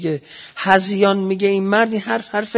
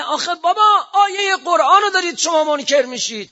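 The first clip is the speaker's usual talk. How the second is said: high, raised plea, voicing Zahra's protest; pleading cry; 10 semitones higher, 3 dB louder than usual. Preacher voicing Zahra pleading with the crowd, high crying protest. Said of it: "هرچی داد زد زهرای مرضیه".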